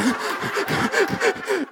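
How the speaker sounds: a real, squeaky laugh; high burst of laughter. Real, not acted. Laughs at own memory.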